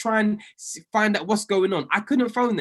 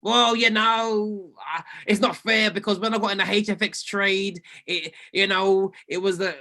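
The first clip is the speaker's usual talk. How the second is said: whiny excuse. Acted. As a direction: drag out the lame excuse of a trader. Mocking a trader's excuse.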